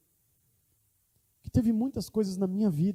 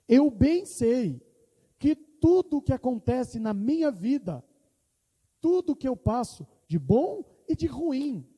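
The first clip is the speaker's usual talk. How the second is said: fervent declaration; 5 semitones higher, 3 dB louder, slower than usual. Acted. Quoting Paul with conviction.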